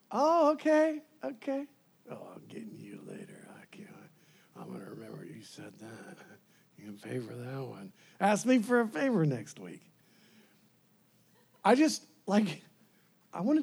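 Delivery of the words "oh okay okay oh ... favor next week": passive-aggressive anger. Acted. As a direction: act out quietly plotting payback. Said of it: "passive-aggressive anger".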